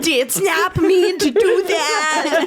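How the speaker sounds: laughing. Real, not acted. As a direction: talk while cracking up. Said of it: "emo voice".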